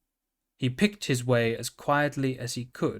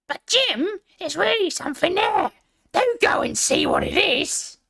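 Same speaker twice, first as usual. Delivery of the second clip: much higher, louder woman's voice; insistent wife; 5 dB louder than usual. Acted. Wife urges Jim to check outside, high and insistent. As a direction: nag him to go look.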